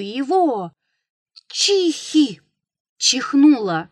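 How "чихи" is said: sudden high sneezing noise; a thunderous supernatural sneeze. A narrator's reading. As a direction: sneeze it out sharply from above. Something sneezes overhead.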